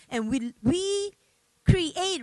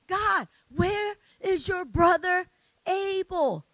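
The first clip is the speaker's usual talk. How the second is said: God calling out. Retold or imitated. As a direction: boom the question down at Cain. God confronts Cain.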